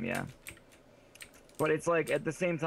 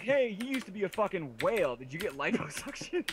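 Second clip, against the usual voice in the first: higher-pitched mock-innocent asking; mock tactless question; 7 semitones higher than usual. Showing a friend how rude the question sounds, mock tactless. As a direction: act out a blunt, chirpy question.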